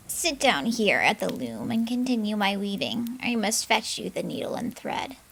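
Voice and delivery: witch voice. Acted. Witch greets the frightened girl in a hag voice. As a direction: greet her like a sly hag.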